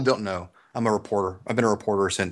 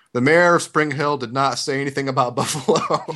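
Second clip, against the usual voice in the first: mock correction read; 3 semitones higher, 3 dB louder than usual. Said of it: "The correction ran something like this".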